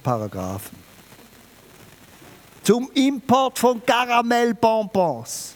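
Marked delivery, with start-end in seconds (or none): 2.6-5.5 higher, slow, incredulous; mock disbelief. Preacher mocks the EU caramel rules with slow disbelief. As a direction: spell out the absurdity. Mocking the EU regulation.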